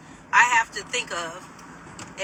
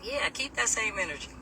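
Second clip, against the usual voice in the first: calm retort; 7 dB quieter than usual. Retold or imitated. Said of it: "I was so calm".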